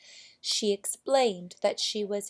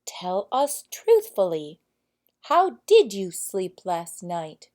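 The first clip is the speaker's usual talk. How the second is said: earnest prince; 7 dB louder than usual. Acted. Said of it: "turning to the princess".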